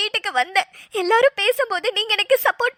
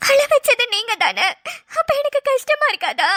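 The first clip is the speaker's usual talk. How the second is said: half laughing, half crying; laughing through tears; 3 semitones higher than usual. Real, not acted. Wife laughs through tears at husband's song. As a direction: giggle while still tearful. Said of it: "நீ பாட்டுக்கு அழுதுட்டே இருக்க".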